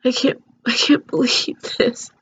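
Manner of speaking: shocked breathy whisper. Real, not acted. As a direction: whisper it in disbelief. Alone, overwhelmed by mother's accusation.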